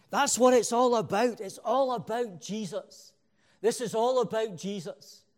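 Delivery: rising preacher fervour, then fading to almost nothing on the last Jesus; carried away. Real, not acted. Preacher getting carried away with his congregation, excited then fading. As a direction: swept up in the praise, then trailing off. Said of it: "I'm getting carried away with myself".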